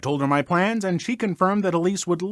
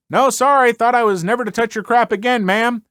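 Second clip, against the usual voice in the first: sarcastic yell back; 5 semitones higher, 4 dB louder than usual. Retold or imitated. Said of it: "yell back".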